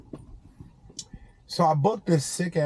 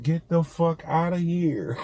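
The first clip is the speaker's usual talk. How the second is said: laughing disbelief; 3 semitones higher than usual. Retold or imitated. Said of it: "I'm like".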